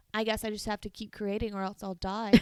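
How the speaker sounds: put-on deadpan, serious delivery. Retelling a movie character's line to the camera, imitating a deadpan serious line. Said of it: "just so deadpan serious".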